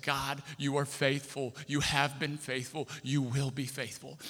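slow, softened prayer without sobbing; retold tearful prayer. Man kneeling at mailbox thanks God, in subdued retold weeping. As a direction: pray slowly and softly, weighing each phrase. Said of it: "got down on my knees in front of that mailbox and wept and said".

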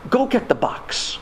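imitated German-accented instruction; German doctor. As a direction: command slowly in a German accent. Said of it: "I hear his voice in my head".

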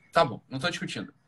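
ordinary talk

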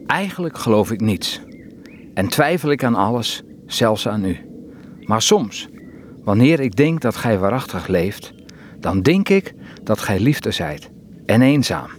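measured poem recital with long pauses; poem reading. Acted. Reading a favourite poem to the interviewer, poem reading. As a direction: read the verse simply, leaving space between lines.

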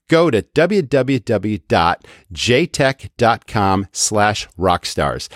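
each part of the URL said slowly and clearly; slow, deliberate web address; slow URL read. Shown as a demonstration. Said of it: "That's spelled".

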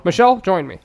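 rich white man. Acted. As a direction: call out as a mock wealthy gentleman. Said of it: "he sounds like a white rich man".

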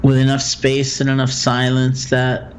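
calm, measured meditation guide with long pauses; guided meditation. Acted. Teacher guiding a listener through loving-kindness phrases, guided meditation. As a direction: guide them gently through it, leaving room for silence.

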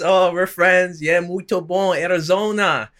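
high, loud, over-friendly gushing; mock friendliness. Fighter shaking her opponent's hand, mock friendly.

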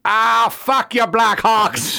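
high, loud barroom jeer at the fans; mock heckling yell. Irish bartender jeering at the Blackhawks fans, loud mocking yell. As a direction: yell it like a rowdy bartender razzing rival fans. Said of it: "this Irish chick, she's like".

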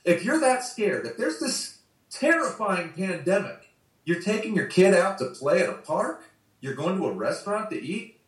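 high, fierce telling-off; tell her off. Pretend. Speaker to the mother at the park, high angry rebuke. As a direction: hurl it at the fearful mother, half-performed. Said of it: "You should be like".

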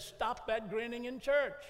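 put-on mama scolding her boy in the pew, slow and stern. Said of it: "she said".

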